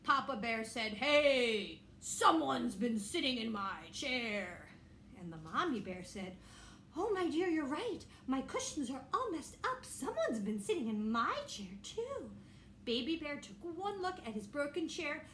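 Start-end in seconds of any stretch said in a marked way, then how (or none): 0.9-4.7 slow, lightly voiced papa bear; a hint of a grumbling father bear, drawn out. 6.9-9.9 Mommy Bear. Acted. Mommy Bear voiced in story. 9.9-12.3 fussing mother bear, ending in a squeak; Mommy Bear. Acted. Mommy Bear voiced in story.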